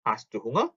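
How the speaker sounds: "hast du Hunger" with "hast du" fused as "hastu"; naturally linked. Shown as a demonstration. Teacher asking the model question, linked pronunciation. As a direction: run "hast du" together before "Hunger". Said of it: "자연스럽게 발음이어서".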